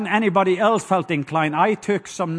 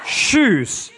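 shouted call; 3 semitones higher than usual. Shown as a demonstration. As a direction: belt it to the crowd like a cheer. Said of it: "Say it again".

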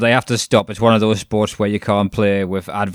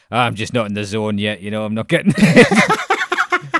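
divorced dad; 4 dB louder than usual. Retold or imitated. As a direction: sigh it out like a tired divorced dad. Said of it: "like a divorced dad going".

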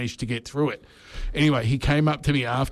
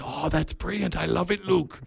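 put-on South African accent; 5 semitones higher, 3 dB quieter than usual. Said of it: "do his South African accent".

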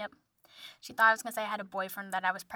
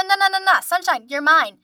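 loud, high retold objection; indignant protest; 5 semitones higher, 7 dB louder than usual. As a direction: insist on claiming the dog, slowing at the end. Protesting as dog picks dad.

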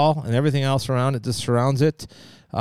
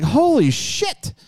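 slow, high holy shit; mock shock; 9 semitones higher, much slower than usual. Reacting to drivers staring at the gas spill, drawn-out mock shock. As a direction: stretch out the shock, pitched up. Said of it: "I'm like".

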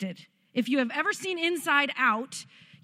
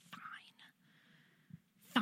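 put-on sulky child; 15 dB quieter than usual. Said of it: "now go get the box".

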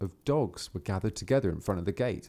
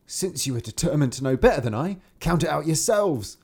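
angry peasant; 5 semitones higher, 4 dB louder than usual. Acted. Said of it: "quite angry".

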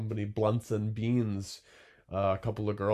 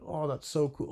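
higher-pitched mock admiration; impressed customer; 7 semitones higher than usual. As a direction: imitate a wowed customer.

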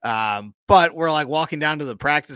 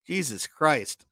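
slow, stretched-out mock amazement; drawn-out awe; 2 semitones higher, much slower than usual. Host recalls seeing a rich member's house, slow awed disbelief. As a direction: let each word drag in disbelief.

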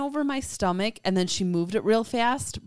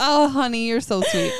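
kind gentle laugh; 6 semitones higher than usual. Real, not acted. Fond teasing of husband.

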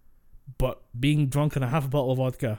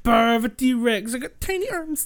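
slow, high, loud cartoon dino; silly dinosaur voice; 11 semitones higher, 6 dB louder, slower than usual. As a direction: whine like a dinosaur with tiny arms, laughing. Voicing a dinosaur joke.

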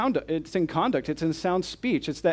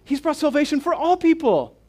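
emphatic declaration; 10 semitones higher, 6 dB louder than usual. Real, not acted. Answering his own question emphatically.

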